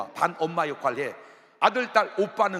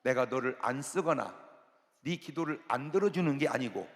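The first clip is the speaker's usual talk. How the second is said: voice of God; 3 dB quieter than usual. Retold or imitated. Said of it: "하나님이 금방 말씀해 주는 거예요".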